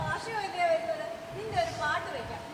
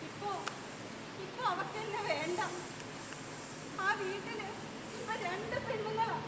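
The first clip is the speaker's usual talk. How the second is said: quiet, choked-up lament about her daughter; softly weeping; tearful; 5 dB quieter than usual. Acted. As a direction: hold back tears as you speak. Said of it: "നീ കരച്ചിൽ നിർത്ത്".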